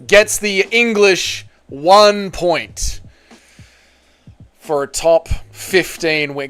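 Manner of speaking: slow, drawn-out announcer call; announcer read. Acted. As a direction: stretch it like a ring announcer.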